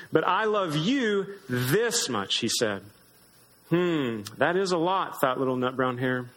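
gentle storybook read-aloud; lightly voiced storybook reading with small character voices; reading to children. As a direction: read it like a bedtime story to little ones. Reads picture book to children.

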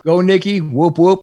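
high playful cheer; root for her like a fan. Real, not acted. Podcaster praising his social media manager, cheering high.

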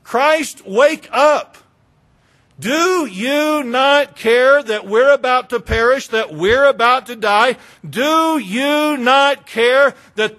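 loud, high, indignant pleading; scolding. Acted. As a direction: chide him loudly in desperate reproach. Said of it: "to scold him a little bit".

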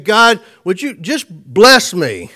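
crying out to God. Retold or imitated. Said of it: "he's crying out to God and he's saying".

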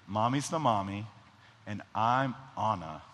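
lightly voiced toddler, stuck then finishing; a hint of a three-year-old assigning parts; imitating Nora. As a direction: stumble on the start like a small child. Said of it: "this is how Nora talks".

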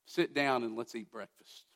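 soft, low, understated reassurance; lightly acted gentle forgiveness, voice dropped low; gentle invitation. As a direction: quietly invite a friend who failed you to the table. Jesus gently forgives failed Peter.

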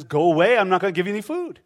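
a mild mock snap of go away; lightly hammed-up grouch; grumpy dismissal. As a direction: brush him off, half-joking. Grumpy God brushing off knocker.

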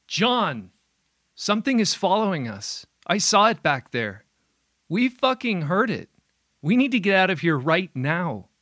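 high, loud, frantic shouting; panicked yelling. Acted. Panicked outburst at John.

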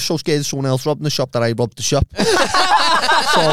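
high helpless laughter. Real, not acted. Laughing at own robbery.

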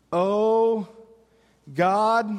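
long, drawn-out cry with a pause between the words. Acted. David cries out to his father, crying out slowly. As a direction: cry out to the Father, letting each word hang. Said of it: "as he cries out to his father".

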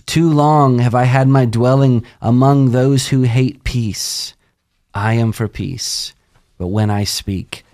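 measured, solemn psalm reading that drops away at the end; scripture reading. Acted. Podcast host reading a psalm to his co-hosts, solemn and measured. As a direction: read the psalm slowly like a prayer.

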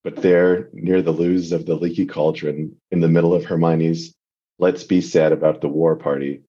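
steady, measured fanfic reading; story reading. Acted. Guest reading a fic aloud for the podcast, calmly narrated. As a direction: read the story out to the podcast hosts, calm and even.

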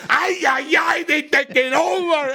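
high, playful Latino accent impression; mock Latino accent. Mimicking Latino neighbours.

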